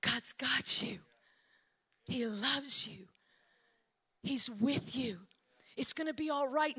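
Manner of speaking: low, slow, breathy comfort; hushed reassurance. Retold or imitated. Preacher comforting a hurting world with arms of love, lightly whispered reassurance. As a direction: soothe them as if whispering.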